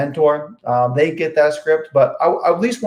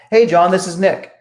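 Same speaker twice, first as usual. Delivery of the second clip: friendly; 3 semitones higher, 3 dB louder than usual. Shown as a demonstration. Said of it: "You go in very friendly".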